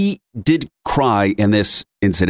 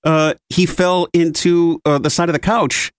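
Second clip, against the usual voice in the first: pointed retort; 6 semitones higher than usual. Retold or imitated. Blaming fiancée's watch.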